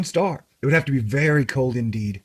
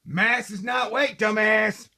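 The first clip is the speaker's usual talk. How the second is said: higher, slow mock-angry scolding; a lightly done irritated scientist snapping at a fool; angry Neil deGrasse Tyson; 7 semitones higher, 4 dB quieter, slower than usual. Podcast host quoting an annoyed astrophysicist, mock angry. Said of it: "what angry Neil deGrasse Tyson says".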